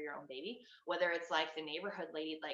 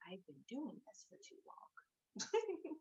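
slow, drawn-out, worn-out sigh of a line, higher and softer; weary and done; 9 semitones higher, 7 dB quieter, much slower than usual. Retold or imitated. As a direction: let it drag like you've had enough. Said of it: "there's just a point where I'm just like".

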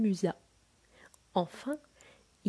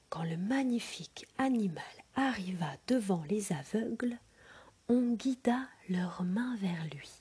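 whispered storytelling. A narrator's reading. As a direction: breathe the tale to a sleeping child. Whispered narration.

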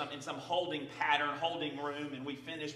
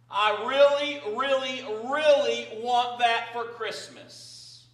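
put-on high, loud, slow childish yelling; child screaming prayer; 7 semitones higher, 7 dB louder, slower than usual. Little Johnny yelling his bedtime prayer, loud and high. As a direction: bellow it like a kid begging for a bike. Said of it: "began just to scream at the top of his lungs".

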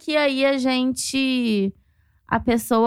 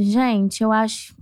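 slightly lower, solemn call to prayer; hint of a pious friend leading prayer; a lightly voiced solemn prayer leader; 4 semitones lower than usual. Friend gathering everyone to pray for the upset fan, lightly solemn. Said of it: "falou desse jeito".

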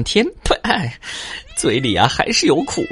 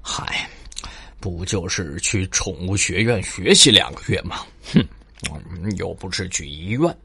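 muttering to himself; 2 semitones lower, 3 dB quieter than usual. Acted. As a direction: mumble it to yourself. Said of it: "自言自语地说".

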